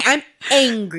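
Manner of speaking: hammed-up kiddie declaration of anger; mad little boy. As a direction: stretch ANGRY out in a mock tantrum. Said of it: "he's mad all the time".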